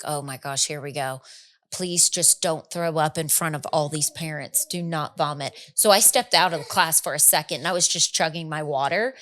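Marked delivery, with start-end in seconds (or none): 0.0-5.5 soft, tense self-pep talk; whisper-level pleading to your own stomach; hushed panic. Retold or imitated. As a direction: mom at class party begging herself not to vomit. Inner panic at class party.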